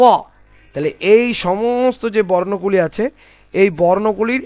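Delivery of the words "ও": ও as a heavy, rounded Arabic Za; heavy sound. Shown as a demonstration. Teacher demonstrating the last letter, heavy ও. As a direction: pronounce ও full and bold, with an "aw" vowel. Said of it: "এটি উচ্চারণ হবে".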